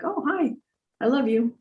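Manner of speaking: bright high sing-song hello; sweet high greeting. Retold or imitated. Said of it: "and be like".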